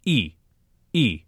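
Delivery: "e" said with lips kept round as for oo. Shown as a demonstration. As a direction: keep the "oo" lips and say "e". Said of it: "Now say".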